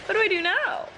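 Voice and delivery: emotional, breaking into teary laughter; tearful laughing. Real, not acted. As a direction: laugh and cry at once. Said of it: "I'm sobbing".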